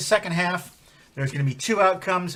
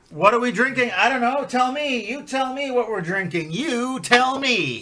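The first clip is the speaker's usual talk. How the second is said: playful teasing; 9 semitones higher than usual. Acted. Playful host demand.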